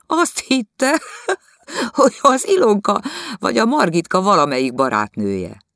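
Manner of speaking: laughing through the words, high and loud. Acted. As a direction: cackle while telling the joke. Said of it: "itt kacagott".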